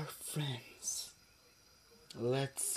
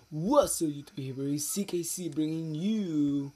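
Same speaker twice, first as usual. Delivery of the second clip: louder YouTube intro greeting; upbeat intro; 3 semitones higher, 4 dB louder than usual. Acted. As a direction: greet the viewers and present the show. Opening the video for viewers.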